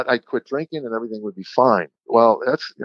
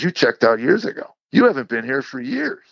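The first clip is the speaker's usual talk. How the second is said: re-enacted accusation, rising at the end; retold accusing retort; 7 semitones higher than usual. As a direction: pitch climbing in mild exasperation. Wife's retort in retold quarrel.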